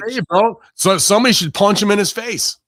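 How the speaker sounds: loud, high mock shout; shouting him down, a bit hammed-up. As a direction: yell it at him like a wrestler calling out the boss. Mock yelling at Tony.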